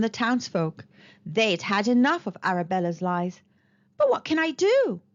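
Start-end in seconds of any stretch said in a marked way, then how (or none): 4.0-5.0 despairing cry. Acted. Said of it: "cried Tom".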